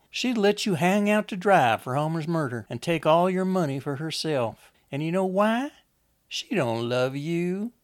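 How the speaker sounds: high, forceful persuasion, slowing at the end; urgent, needling Lizzie. Acted. Lizzie tells Enoch Wanda is using him, high and needling. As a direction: push him hard, then stretch out the final blow.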